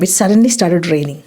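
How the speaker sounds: slow, careful teacher read; deliberate classroom pronunciation; slow model sentence. Shown as a demonstration. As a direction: spell it out slowly for learners. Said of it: "അവിടെ suddenly ഉപയോഗിക്കാം".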